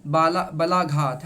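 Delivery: teacher slowly stressing the term बलाघात; stressed term. Shown as a demonstration. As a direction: lean on बलाघात, slow and firm. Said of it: "इस क्रिया को कहा जाता है".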